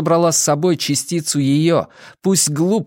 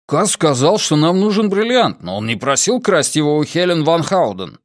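higher-pitched astonished objection; indignant protest; 5 semitones higher than usual. A narrator's reading. Jesper objects to stealing Helen's necklace, indignant. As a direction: protest in disbelief, pitch raised.

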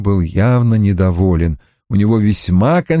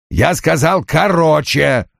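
higher, КОРОЧЕ drawn out slowly; insistent repeated order; 5 semitones higher than usual. Acted. Boss repeats his order impatiently. (настойчиво, с нажимом)

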